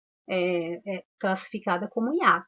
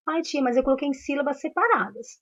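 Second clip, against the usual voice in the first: higher, quick mock pupil protest; imitating a pupil; 6 semitones higher, faster than usual. Pupil objecting to the teacher about the answer, mock protest, fast and higher. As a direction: pipe up like a pupil with an excuse.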